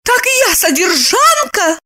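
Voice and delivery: high, indignant question; flaring up. Acted. Lipochka flares up at Roman, indignant. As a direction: flare up in outrage. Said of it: "вспыхнула Липочка".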